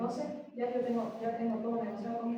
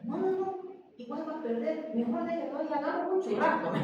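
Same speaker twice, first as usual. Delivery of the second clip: higher and louder, breaking into laughter; amused, raised voice through a laugh; laughing quote; 7 semitones higher, 4 dB louder than usual. Retold or imitated. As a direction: retell the lawyer's advice while laughing.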